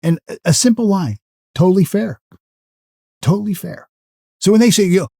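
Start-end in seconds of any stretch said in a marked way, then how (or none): 1.5-3.9 calm authority. Shown as a demonstration. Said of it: "with calm authority".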